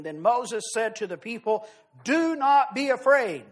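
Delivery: measured, solemn Bible reading to the congregation; scripture reading. Acted. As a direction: read the passage with weight, like from the pulpit. Preacher reads scripture aloud.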